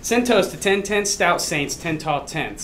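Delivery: quick tongue-twister run; at full speed. Shown as a demonstration. Math teacher racing through a tongue twister in a contest, quickly. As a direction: rattle it off briskly. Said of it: "Let me tell it slowly first".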